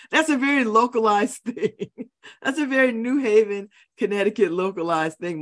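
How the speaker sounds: laughing through the words. Real, not acted. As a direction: chuckle as you explain the joke. Laughing at her own reference.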